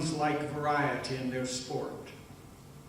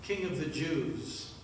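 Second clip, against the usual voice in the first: humble request; 2 semitones lower, 6 dB quieter than usual. Acted. Dying thief humbly addressing the man on the center cross. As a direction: ask gently, with no demand in it. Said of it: "I asked".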